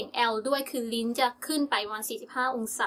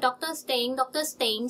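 Thai-version pronunciation; much slower than usual. Shown as a demonstration. Teacher shows the usual Thai version, Thai accent. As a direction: say Doctor Strange with a Thai accent. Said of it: "ถ้าเราพูดปกติเป็นเวอร์ชันไทย".

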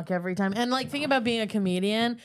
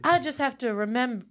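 southern accent; 2 semitones higher than usual. Shown as a demonstration. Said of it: "doing a southern accent".

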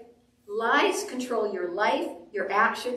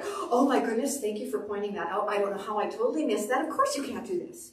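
quick, gushing mock realization; mock agreeing God; faster than usual. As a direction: play up a fake apology from God. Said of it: "God's response was like".

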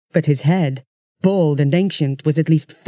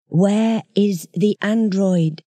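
alien creature voice; 3 semitones higher, much slower than usual. A narrator's reading.

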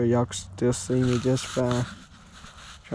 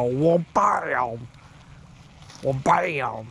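mock strike sound; much slower than usual. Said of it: "I'm gonna go".

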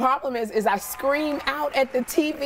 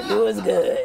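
Whoopi impression; 2 semitones lower, slower than usual. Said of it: "you've done Whoopi".

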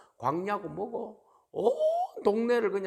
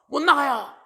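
high, loud shouted refusal; acted high-pitched yell; defiant demon's refusal; 8 semitones higher, 8 dB louder than usual. Acting demon refusing Jesus.

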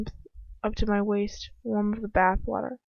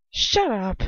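snapped; 3 dB louder than usual. A narrator's reading. Narrator voices a retort to his taunts, snapped. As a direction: snap it out sharply to cut him off. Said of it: "I snap".

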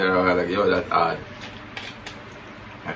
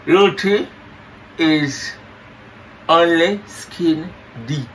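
talking with mouth held open; words through a propped-open mouth; 6 semitones higher, slower than usual. Pretend. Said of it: "you say you're not pronounce good".

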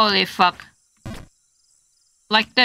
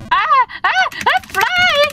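much higher, sung-out ah ah ah fly; high flying cry. Real, not acted. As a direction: soar up on the vowels like taking off.

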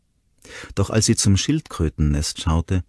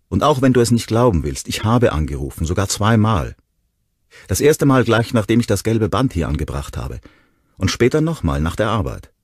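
louder, insistent; heated defense; 4 semitones higher, 4 dB louder than usual. Acted. Will defending himself to Ronnie, heated. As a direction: make her listen.

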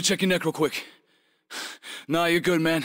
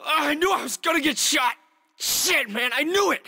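panicked yell; 9 semitones higher, slower than usual. Acted. Panicked after getting shot.

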